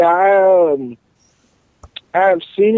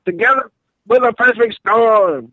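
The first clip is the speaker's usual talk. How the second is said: high, hyped-up wrestler promo voice; 1980s wrestling promo; 5 semitones higher than usual. Pretend. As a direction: cut an old-school wrestling promo. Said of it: "it's nineteen eighties promo time".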